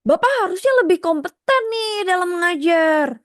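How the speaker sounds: high, pushy "harusnya" with a falling end; commanding tone. Shown as a demonstration. Teacher demonstrating a commanding tone that stirs emotion. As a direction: order him about, bossy and irritated. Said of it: "Beda kan nadanya".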